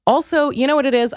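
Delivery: usual speaking voice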